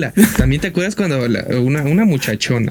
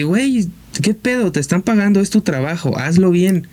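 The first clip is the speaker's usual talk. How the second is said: retold fed-up scolding; 4 semitones higher than usual. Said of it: "me harto de".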